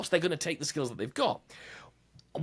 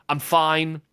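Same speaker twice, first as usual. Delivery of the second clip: 1 curt i'm fine; 2 semitones higher, 6 dB louder than usual. Shown as a demonstration. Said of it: "Those two words".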